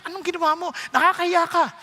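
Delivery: lightly acted indignant telling-off; angry scolding. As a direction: imitate a scandalized wife's rebuke. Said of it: "galit na galit".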